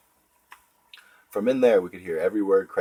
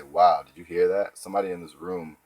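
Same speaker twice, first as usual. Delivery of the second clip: fake sympathetic; 3 dB louder than usual. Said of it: "Using the weasel defense, I'd say".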